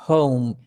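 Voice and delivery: "home" said lightly, unstressed; unstressed syllable. Shown as a demonstration. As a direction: let "home" go light and airy on the H. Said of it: "خفيف نسميه unstressed".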